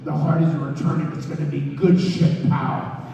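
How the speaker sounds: forceful, rough boss impression; hammed-up boss, exclaiming then hyping it up; Vince McMahon. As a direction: imitate a blustering boss on the phone. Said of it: "That was Vince McMahon who just called me".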